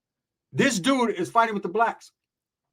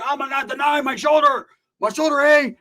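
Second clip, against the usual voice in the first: an imitated injured rider wailing; mock pained wail; 9 semitones higher, 5 dB louder than usual. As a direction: play up the hurt, wailing. Stabbed man crying about shoulder.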